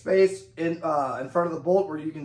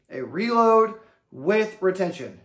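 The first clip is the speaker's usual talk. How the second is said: 1 slow call-and-repeat; slower than usual. Shown as a demonstration. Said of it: "Say it with me".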